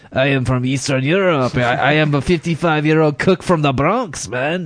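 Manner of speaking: put-on muddled, lightly done Eastern European accent; attempted Eastern European accent. Host introduces a Bronx cook, shaky attempt at Eastern European accent. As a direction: try a vague Eastern European accent, not quite landing it. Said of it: "I don't know what fucking accent that was".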